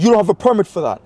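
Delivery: high, loud accusation; imitated yelling. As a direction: mimic a man yelling an accusation. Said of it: "he starts yelling at me".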